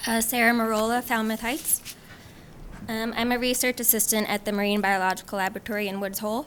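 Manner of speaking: soft, quiet self-introduction; too far from mic. Real, not acted. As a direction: introduce yourself softly, barely carrying. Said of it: "Sarah, closer to the mic".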